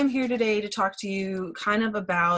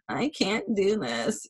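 slow, put-on complaint; mock defeat; 3 dB quieter, slower than usual. Negative team member complaining to leaders, mock defeated. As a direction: draw it out like someone giving up.

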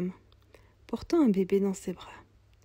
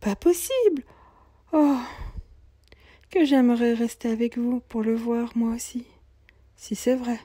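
put-on high, eager young woman's voice; excited young mother; 4 semitones higher, 5 dB louder than usual. Young mother amazed the Lord will pass by, high and eager. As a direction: sound amazed, then hurried.

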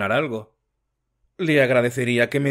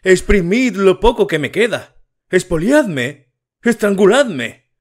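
much higher and louder, slowing on the last words; father raging while pacing the room; high furious shouting; 7 semitones higher, 6 dB louder than usual. A narrator's reading. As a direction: wail it out as a wronged man. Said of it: "gritaba con voz aguda".

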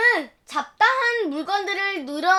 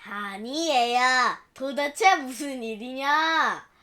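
put-on old mother-in-law; slower than usual.

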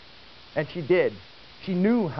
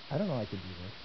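small doubtful voice; 7 semitones lower, 8 dB quieter, much faster than usual. Retold or imitated. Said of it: "we kinda start out that way".

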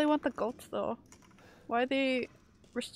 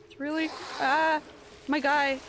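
alarmed yell; 4 semitones higher, 4 dB louder than usual. Real, not acted. Scared by moving thing.

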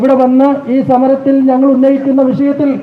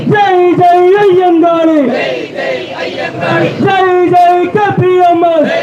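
rally speech; 5 semitones higher, slower than usual. Acted. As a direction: chant each slogan out to the crowd. Protest slogan chanting, call and response. (മുദ്രാവാക്യം വിളിക്കുന്ന ഉച്ചത്തിലുള്ള താളം)

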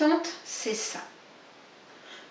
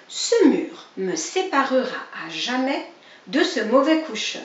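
jubilant; 3 semitones higher, 4 dB louder than usual. Acted. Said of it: "jubilait-il".

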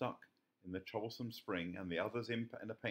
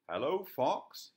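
calling out; 9 semitones higher, 11 dB louder, slower than usual. A narrator's reading. Calling into the tree.

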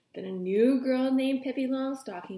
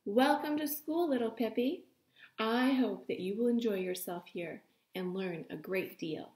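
open and friendly. Acted. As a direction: greet a new pupil gently. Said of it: "said in a friendly voice".

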